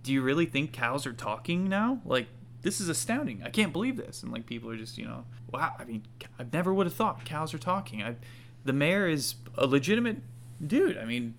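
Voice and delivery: lightly voiced amazed bystander; amazed villager. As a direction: marvel at the talking cow, pitch leaping up. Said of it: "and you hear".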